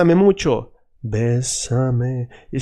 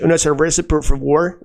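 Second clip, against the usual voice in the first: English accent; 2 semitones higher than usual. Shown as a demonstration. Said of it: "If you're English".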